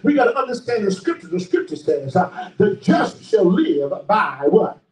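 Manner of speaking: measured sermon cadence with stretched key words; preacher driving a lesson home; emphatic preaching. Real, not acted. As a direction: preach each phrase out deliberately. Preaches on Abraham's trust.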